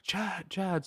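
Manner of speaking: a silly sing-song name call; mock prank caller.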